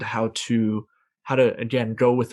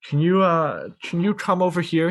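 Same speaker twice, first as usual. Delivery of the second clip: put-on higher-pitched small boy pleading for help; little kid asking; 6 semitones higher than usual. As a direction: ask like a tiny kid stuck in the bathroom. Small kid calling from bathroom.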